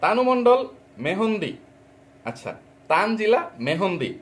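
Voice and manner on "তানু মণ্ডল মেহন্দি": mocking read. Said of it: "টাইটেলে লিখছিস".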